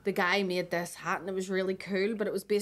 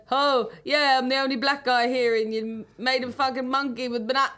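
friend impression; 4 semitones higher than usual. Friend confronts the balloon artist, mock-indignant impression. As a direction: do your mate calling someone out, in his accent. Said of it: "that's quite a good impression".

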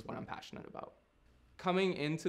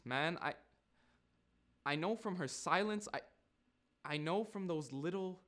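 Nigel, subdued realisation; 3 semitones higher than usual. Acted.

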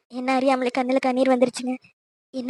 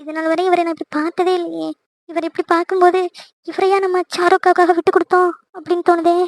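higher, swooning admiration; girl swooning at her cousin, higher; excited gushing; 6 semitones higher than usual. Acted. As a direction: gush over the handsome groom. Girl gushing over handsome cousin.

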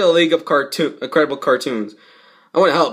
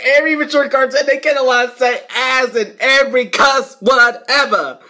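worked-up rant; 9 semitones higher than usual. Real, not acted. Ranting about cartoon cussing.

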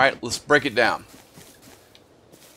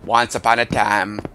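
Morgan Freeman impression; 2 semitones lower than usual. Gamer tries Morgan Freeman narrating, barely changed. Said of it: "How about Morgan Freeman?".

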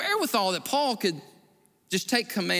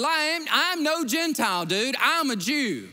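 firm correction; 8 semitones higher, 3 dB louder than usual. Retold or imitated. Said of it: "Paul said".

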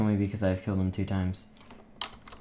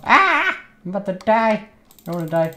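shaky stammering panic; 10 semitones higher, 4 dB louder than usual. Real, not acted. About to die in PvP.

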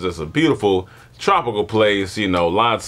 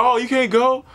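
mocking kid. Kids mocking him.

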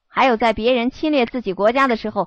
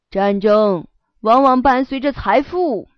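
slow, sly devilish voice; 3 dB louder, slower than usual. Acted. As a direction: tempt him like a devil, slowly. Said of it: "我用魔鬼的声音对他说道".

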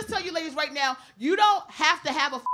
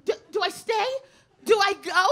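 panicked; 4 semitones higher than usual. Retold or imitated. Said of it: "Amber's like".

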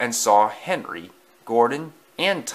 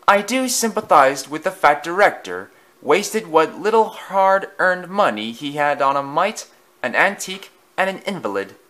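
boastful engine; 7 semitones higher than usual. A narrator's reading. Bully sneering at Thomas's railway. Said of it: "boasted loudly".

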